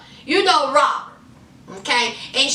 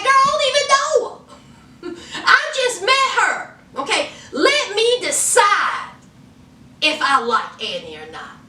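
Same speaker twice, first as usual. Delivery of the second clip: high, fast, sassy retelling of Kenny; sassy mock Kenny; 3 semitones higher than usual. Brother doubting his new sister-in-law, fast, high and sassy. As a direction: play the wary brother, quick and up high. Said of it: "was like".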